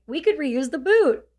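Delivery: a hint of shock-numbed calm; dazed remark. Soldier holding a comrade's boot, lightly dazed. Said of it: "attempt at humor ... completely just lost".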